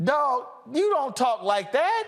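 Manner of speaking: high, disbelieving callout; incredulous scolding. Real, not acted. Host scolding the senator's fake accent, high and incredulous. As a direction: scold him like you can't believe it.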